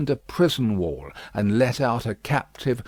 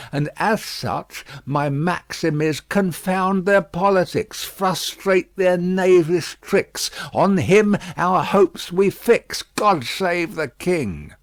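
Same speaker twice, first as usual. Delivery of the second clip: higher, louder, solemn anthem words; patriotic recital; 8 semitones higher, 5 dB louder than usual. A narrator's reading. Miss Pross proudly reciting the anthem, a touch solemn. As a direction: declaim the lines like a loyal hymn.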